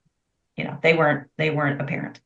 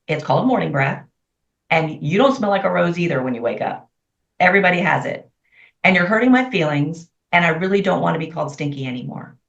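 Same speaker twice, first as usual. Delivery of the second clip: calm and sincere; faster than usual. Retold or imitated. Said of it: "And it was literally in this tone".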